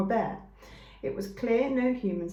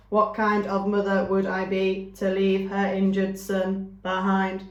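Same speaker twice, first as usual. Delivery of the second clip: slow, even, slightly louder robot voice; a calm, firm robot mother who refuses to leave her son; 6 dB louder than usual. A narrator's reading. Robot mother refusing to leave her injured son, slow and firm.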